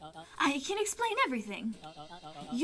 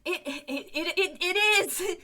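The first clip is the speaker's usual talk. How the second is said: laughing; 3 semitones higher, 4 dB louder than usual. Real, not acted. Player laughing in dismay.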